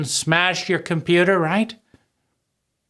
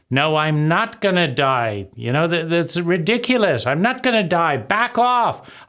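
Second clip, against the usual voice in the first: defiant pushback; 2 semitones higher than usual. Retold or imitated. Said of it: "Flailing around".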